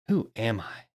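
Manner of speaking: humble, searching who am I; honest question. Shown as a demonstration. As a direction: ask it with an honest heart. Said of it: "Do you hear the tone difference?".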